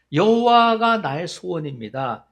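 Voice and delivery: loud, slow declaration; solemn proclamation. Acted. Preacher voices David's confession to God, loud and slow proclamation. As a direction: proclaim it slowly at full voice.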